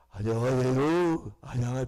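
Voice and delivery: mock hoarse greeting after prayer retreat; voice gone hoarse. Returning from a prayer retreat greeting people, mock hoarse croak. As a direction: croak it out like a worn-out throat. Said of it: "목소리도 안 나와가지고".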